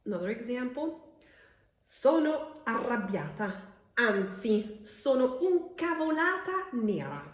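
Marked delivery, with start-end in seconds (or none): 1.9-7.2 louder and higher, a mock angry rant; annoyed outburst. Shown as a demonstration. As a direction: act fed up, then top it. Teacher acts an angry example.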